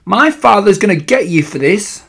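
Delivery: high, loud bratty threat; outraged child's yell; shrieking boy. A narrator's reading. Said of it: "he had leapt up shrieking".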